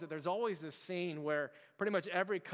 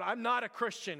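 raised, higher-pitched imitation of angry denial; mock cursing denial; 5 semitones higher, 4 dB louder than usual. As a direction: deny it hotly, as if cursing. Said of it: "Peter starts cursing".

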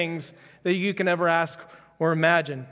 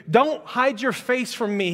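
slow, raised, aching appeal; anguished plea; 4 semitones higher, slower than usual. Acted. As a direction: beg God not to turn away. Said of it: "he cries out".

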